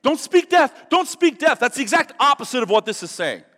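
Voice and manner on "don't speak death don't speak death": higher, louder mocking chant; mocking slogan. Preacher to congregation, mocking word-of-faith teachers, loud sarcastic chant. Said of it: "'Cause I don't wanna speak death".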